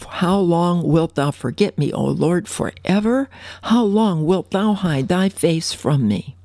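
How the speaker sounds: pleading psalm read with rising forever; slow heartfelt lament; expressive reading. Shown as a demonstration. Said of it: "let me read it now".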